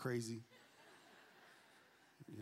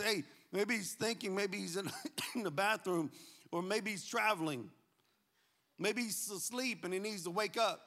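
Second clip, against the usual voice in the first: mild mock taunt; 4 semitones higher than usual. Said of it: "he's just taunting them".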